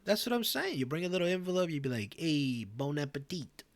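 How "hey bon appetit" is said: a slow, lightly put-on Italian accent. Guest handing over an envelope, in a hint of Italian accent. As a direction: toss off a mock Italian greeting, slowed down. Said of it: "That was my Italian accent right there".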